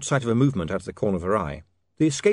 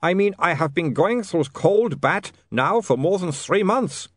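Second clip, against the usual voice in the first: muttering vampire; 8 semitones higher, 4 dB louder, slower than usual. A narrator's reading. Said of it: "muttered Otto".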